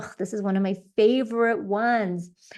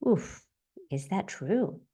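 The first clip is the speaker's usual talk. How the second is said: gentle self-noting; 4 semitones lower than usual. Shown as a demonstration. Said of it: "and then you can say".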